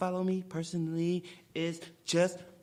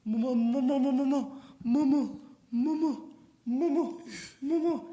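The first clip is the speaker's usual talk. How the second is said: imitating the voiceover; 7 semitones higher than usual. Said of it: "and Mama Boonie".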